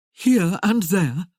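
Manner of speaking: slow incredulous repeat of "Here and there?"; incredulous echo. Acted. Merlin echoing Tamara's careless words, slow and stunned. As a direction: drag out "Here and there?" in disbelief. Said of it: "he echoed".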